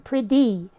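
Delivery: "pretty" as prid-dee. Shown as a demonstration. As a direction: put a D in "pretty". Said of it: "the T would sort of get pronounced as a D".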